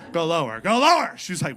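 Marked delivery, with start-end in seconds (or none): 0.1-0.6 louder put-on dog plea; mildly worked-up dog voice; talking dog, losing it. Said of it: "He started losing his mind". 0.6-1.1 high, very loud dog plea; frantic mock-dog begging; talking dog, losing it. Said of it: "He started losing his mind".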